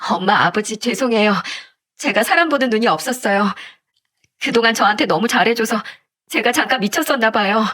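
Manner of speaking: lightly acted tearful apology; tearful lament. Daughter apologising to her parents, mildly tearful. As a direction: plead with a touch of crying. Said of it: "딸이 울면서 하소연을 했습니다".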